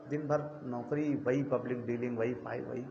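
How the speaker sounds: weary job grumble. Retold or imitated. Friends moaning about their office routine, in a mildly weary mimicry. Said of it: "लोग दोस्त मिलते हैं यार".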